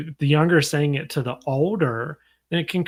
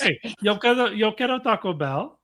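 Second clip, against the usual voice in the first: lightly put-on higher voice; mock commercial mascot, pitched up; jokey catchphrase voice; 6 semitones higher than usual. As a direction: toss out an ad slogan playfully. Quoting ad catchphrase as a joke.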